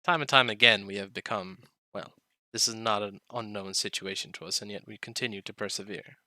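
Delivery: a hint of a solemn old dragon; lightly voiced dragon, measured and grave; dragon character voice. The speaker is in character.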